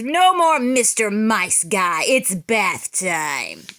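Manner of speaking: slow deliberate threat; tough-guy taunt. Acted. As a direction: savour each word of the threat. Big Cheese taunts the monster.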